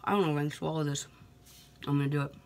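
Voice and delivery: talking while chewing pepper; words round a mouthful; mouth full. Real, not acted. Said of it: "Still chewing".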